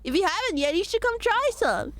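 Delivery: sly, lightly voiced shopkeeper cat; cat merchant voice. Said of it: "Good cat merchant voice".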